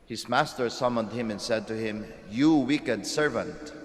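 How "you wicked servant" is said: stern rebuke. Acted. Master rebukes servant.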